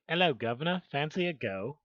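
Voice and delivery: mock posh British greeting; lightly put-on posh British accent. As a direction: try out a posh British "governor". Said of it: "Posh like".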